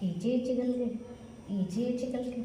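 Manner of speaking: soft, sing-song repetition; tender cooing. Real, not acted. Grooming papa's hair, soft cooing. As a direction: murmur fondly, quietly repeating.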